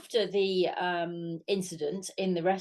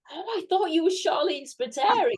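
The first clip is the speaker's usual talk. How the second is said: imitating a taken-aback fan, higher pitch; lightly hammed-up, higher-pitched surprise; mock surprise; 9 semitones higher than usual. Fan explains her mistaken identity, mildly surprised imitation. Acting out fan's surprised reply.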